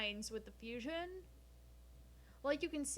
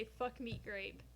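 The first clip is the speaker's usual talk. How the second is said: slow mock motto; slower than usual. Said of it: "In this house, we say".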